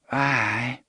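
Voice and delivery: weary, flat agreement; resigned. Acted. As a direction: sigh out a tired aye. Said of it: "Dave repeated in a resigned voice".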